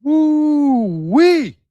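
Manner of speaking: high, loud whoop of delight; excited whoop. Real, not acted. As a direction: let out a gleeful victory holler. Celebrating a find on stream.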